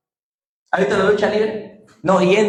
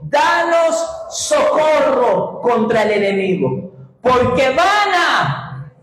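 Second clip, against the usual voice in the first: shouted reading; 3 semitones higher, much slower than usual. Acted. Congregation reads aloud together.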